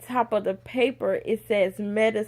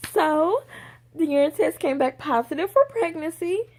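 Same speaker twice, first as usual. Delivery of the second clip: higher, careful doctor voice; doctor breaking news; 5 semitones higher than usual. Retold or imitated. Doctor telling patient the test is positive, lightly imitated careful voice. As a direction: lightly voice a doctor delivering results.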